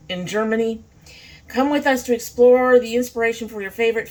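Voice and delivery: lightly storybook-style reading. Acted. Reading the palette card to viewers in a mild storybook voice. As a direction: read it like a fairy tale opening.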